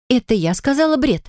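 high, indignant retort; ringing indignation. A narrator's reading. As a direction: bristle with outrage at the accusation. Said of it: "Её голос звенел возмущением". (звенящее возмущение, выше обычного)

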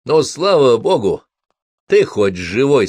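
slow, loud relief; relieved. Acted. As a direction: let out the relief. Relief after dead driver wakes.

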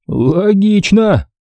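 very slow, drawn-out approval; approving. A narrator's reading. Max to the narrator, approving the plan, very slowly drawn out. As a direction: savour the word, slowly. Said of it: "одобрил мою мысль Макс".

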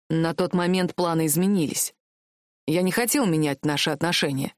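calm, firm, measured reply; firm prince. A narrator's reading. Prince firmly answering the heroine, calm and set. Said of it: "твёрдо ответил его высочество".

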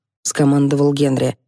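ordinary delivery, nothing marked

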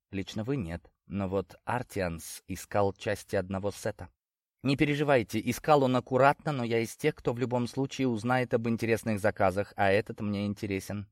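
hushed, sly dealer's voice; soft-spoken leprechaun. Acted. Leprechaun speaks quietly.

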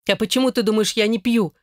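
high shriek of protest. A narrator's reading. Wife shrieks back at husband, high and indignant. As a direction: squeal it up high. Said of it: "взвизгнула она".

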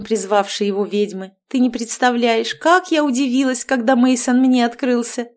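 bubbly overbearing mother-in-law chattering; cheerful witch. Acted. Marianna lecturing heroine. (ведьма щебечет слегка выше обычного)

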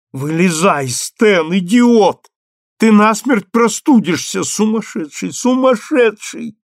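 high, loud scolding cry; scolding yell. Acted. Ellen yells at Stan lying in the full bath, loud scolding. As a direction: shout him out of the water.

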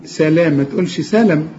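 سلام with the long ا, not the clipped سلم; long a shown. Shown as a demonstration. Teacher to student: long سلام against clipped سلم. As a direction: hold the ا in سلام. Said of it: "اللام بعدها الألف".

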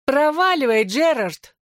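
put-on girl shouting him away; annoyed shout. A narrator's reading. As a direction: snap at him to get lost. Claire yells at Gerard.

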